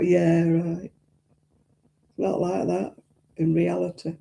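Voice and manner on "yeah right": sarcastic. Retold or imitated. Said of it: "I thought".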